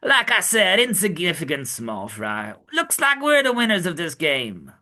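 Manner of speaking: put-on mild Brooklyn accent for Sanji; a light Brooklyn tough-guy read. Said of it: "my Brooklyn accent for Sanji".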